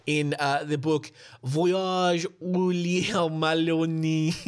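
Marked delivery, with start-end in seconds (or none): 1.4-4.3 put-on French accent. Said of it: "My French is as good as my German".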